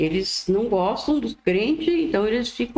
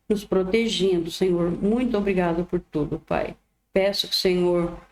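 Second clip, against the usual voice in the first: real, even-toned prayer of thanks; closing prayer. Real, not acted. Speaker thanks the Lord for the reading, simple prayer. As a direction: pray simply in short, even phrases.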